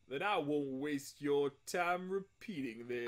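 lightly voiced smooth talker; smooth man. Game host breaking from robot voice to a lightly smooth man. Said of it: "a very smooth man".

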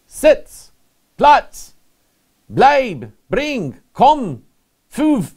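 high, loud barked German commands; barked dog commands. Shown as a demonstration. Preacher showing the congregation German dog commands, barked high and loud. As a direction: bark each word at the dog like a handler. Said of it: "a list of German dog commands".

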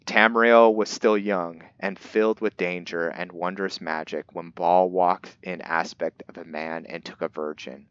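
put-on measured storybook narration of an old legend; book reading. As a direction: read it like an ancient tome, lightly dramatic. Reads the in-game book aloud.

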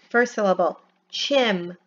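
each syllable said apart. Shown as a demonstration. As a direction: break the word into its parts. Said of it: "Blend it together".

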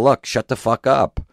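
high loud blunt command; mock order. Comic coaching the guy to silence her, loud. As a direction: bark it at her. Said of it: "Tell her".

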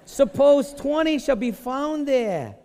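put-on high, slow, drawn-out Jewish accent. Preacher voices Abraham haggling with God, hammed-up Jewish accent. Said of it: "I need to get my Jewishness on right now".

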